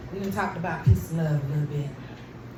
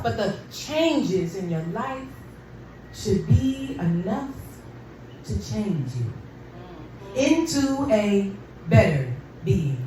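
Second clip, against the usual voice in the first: spoken word poem. Acted. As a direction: let each line land, gently. Recites a short poem.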